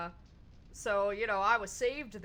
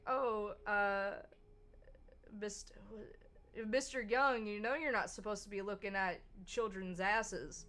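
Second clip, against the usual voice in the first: sassy comeback; 2 semitones higher, 3 dB louder than usual. Retold or imitated. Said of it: "And I was like".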